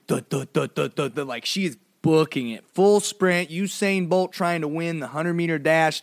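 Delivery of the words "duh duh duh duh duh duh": rapid thudding footstep noises; imitated running footsteps. Storyteller imitating his sister's running feet, staccato thuds. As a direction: mimic pounding little feet. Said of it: "and then I just hear".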